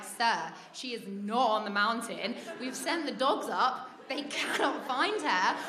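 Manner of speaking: slow, emphatic official delivery; lightly voiced officer, spacing out each word; imitated police officer. Police to panicking dad, slow imitated official firmness.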